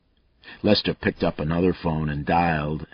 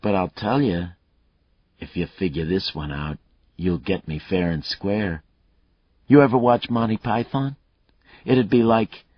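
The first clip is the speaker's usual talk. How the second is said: a lightly voiced cocky killer, higher and louder; taunting killer; 4 semitones higher, 4 dB louder than usual. Killer Mayle taunting Lucas over the phone, cocky and loud. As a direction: goad the cop, enjoying himself.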